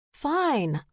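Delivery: a huffed, grudging concession; huffy. A narrator's reading. Narrator giving in to the group, huffy. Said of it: "I huffed".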